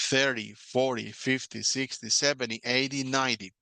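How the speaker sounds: "Thirty", "forty", "fifty" hit on the first syllable with a light "-ty"; first syllables stressed, endings light. Shown as a demonstration. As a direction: push the front of each number. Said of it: "la entonación va al principio de la palabra".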